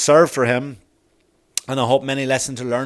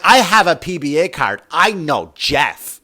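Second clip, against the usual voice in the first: smug mockery; 3 semitones higher, 4 dB louder, slower than usual. Mocking people who wave special cards at cops, smug. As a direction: imitate someone showing off connections, stretching the name.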